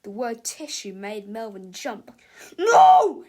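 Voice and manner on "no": very high, very loud shriek; panicked cry. A narrator's reading. Melvin hearing the word tissue, panicked scream. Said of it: "he cried in a panic".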